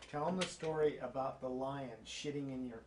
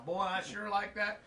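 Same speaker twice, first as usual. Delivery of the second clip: laughing, lightly put-on Southern country accent, a bit higher; 5 semitones higher than usual. Son retelling Dad fooling car dealers, laughing Southern country accent. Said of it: "country accent".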